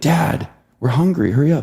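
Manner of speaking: put-on impatient child's calling voice.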